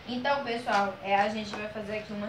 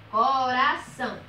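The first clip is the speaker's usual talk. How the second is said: CORAÇÃO slowly stretched out, CO-RA-ÇÃO; drawn-out syllables; 4 dB louder, slower than usual. Shown as a demonstration. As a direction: say CORAÇÃO slowly for a class, each syllable clear. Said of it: "Perceba que nós abrimos a boca".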